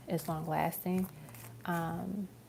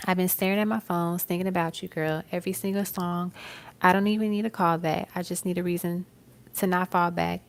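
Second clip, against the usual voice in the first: lyric recitation; 4 dB louder than usual. Acted. Reads song lyric as message.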